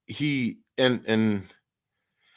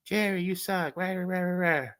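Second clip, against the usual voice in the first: mock yell; 8 semitones higher than usual. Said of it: "You can yell at me".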